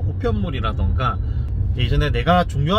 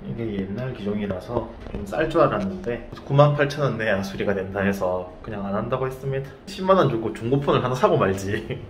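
muffled behind cloth mask; speaking with covered mouth; through a face mask; 4 semitones lower than usual. Real, not acted. Seen 4: Black face mask covers mouth and nose throughout elevator talk.

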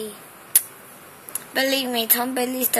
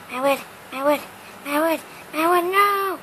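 mock whine; 5 semitones higher than usual. Losing his wood in game.

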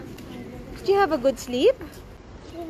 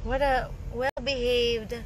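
slow tender praise; 2 semitones lower, 5 dB quieter, slower than usual. Real, not acted. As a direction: praise him gently and slowly. Praising a child.

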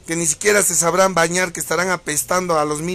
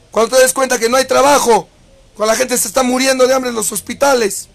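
angry rant; 6 semitones higher, 6 dB louder than usual. Real, not acted. Ranting at his critics.

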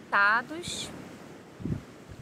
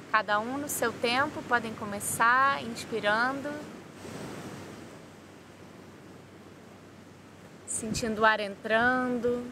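calm guided-meditation voice with long pauses; 3 dB quieter than usual. Real, not acted. Yoga teacher guiding listeners through body relaxation, calm meditation voice. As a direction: lead them through breathing and relaxation, unhurried.

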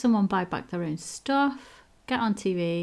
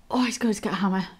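whisper. Real, not acted. Sneaky glee at trap.

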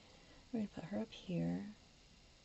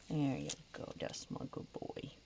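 pet voice; 3 semitones lower than usual. Real, not acted. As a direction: coo it to the dog. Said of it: "that's how I talk to my grand dog".

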